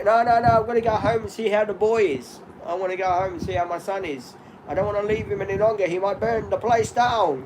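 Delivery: a hint of his old dad insisting on going home; imitating his father. Son imitating his father insisting he must go home, lightly voiced. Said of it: "This is the way he talks".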